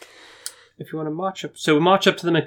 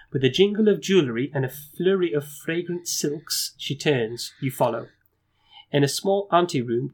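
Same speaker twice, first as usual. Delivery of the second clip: measured storyteller reading; gamebook narration. A narrator's reading. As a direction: set the scene for the player.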